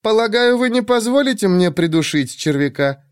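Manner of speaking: high, lightly teasing woman. Acted. Shurk voiced.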